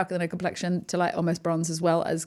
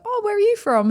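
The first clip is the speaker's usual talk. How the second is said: high, louder chirpy inquiry; eager friendly question; 13 semitones higher, 5 dB louder than usual. Retold or imitated. Greeting a fellow Brit in a shop, eager and high. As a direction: pipe up brightly to a stranger. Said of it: "and I'll go".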